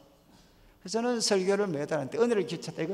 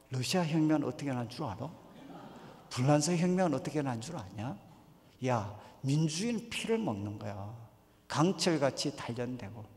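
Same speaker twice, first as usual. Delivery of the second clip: lower, softer imitation of his earlier preaching; earnest activist preacher; 4 semitones lower, 4 dB quieter than usual. Young pastor lecturing kids on revolutions, lightly mocked earnest preaching. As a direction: solemnly quiz the youngsters, spacing out each line. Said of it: "그때 제가 애들한테 무슨 설교했겠습니까?".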